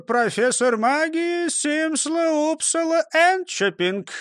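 high, slow, barely holding in a laugh; mock-grand title, laughter held in; holding back laughter. A narrator's reading. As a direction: say it pompously while stifling a giggle. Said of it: "пробормотал Крендель, едва сдерживая смех".

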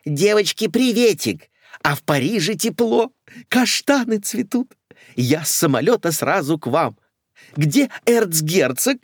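high, excited chatter; chattering lady. Acted. Newly arrived lady greets friends, high excited chatter. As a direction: rattle on excitedly. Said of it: "затараторила".

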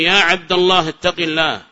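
"عبد" said with -a before الله; accusative ending. Shown as a demonstration. Teacher gives example for parsing, "عبد" said abda. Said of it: "بل يجب نصبها".

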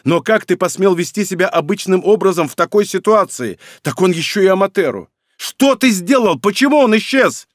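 high, loud, rising fury; furious shouting. Acted. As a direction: explode at your brother. Brother's escalating rage.

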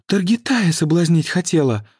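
outraged gasp; gasping outrage. Acted. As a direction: gasp it out, scandalized. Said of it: "ахнула Теофилия".

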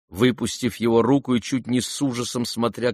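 ordinary delivery

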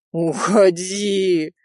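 very slow, drawn-out plea; pleading. A narrator's reading. Rizo silently pleading with Nadya to leave, slow. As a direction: stretch it out, begging. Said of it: "молил её Ризо".

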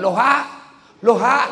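high, loud comic shout; yelled backwards hello. Retold or imitated. Villager told it is backwards flips the word itself, yelling. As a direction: yell the flipped word just as hard as the hello. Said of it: "Haji, terbalik".

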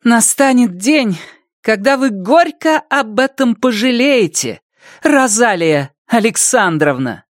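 a proud cold promise; with dignity. A narrator's reading. Girl warning the witch, proud and measured. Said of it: "с достоинством отчеканила".

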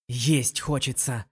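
hungry, impatient grumble, rising in volume; grumbling. A narrator's reading. Lin Yueru grumbles to her friend about waiting for dinner. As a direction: whine loudly that you are starving. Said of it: "пробурчала Лин Юэру".

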